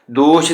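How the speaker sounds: ਦੋਸ਼ ending in sh, no u after it; sh sound. Shown as a demonstration. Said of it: "ਦੋਸ਼ ਦੇ ਸੱਸੇ ਥੱਲੇ ਵੀ ਬਿੰਦੀ ਦਾ ਉਚਾਰਨ". (ਦੋਸ਼ ਸ਼ 'ਤੇ ਖਤਮ, ਔਂਕੜ ਬਿਨਾਂ)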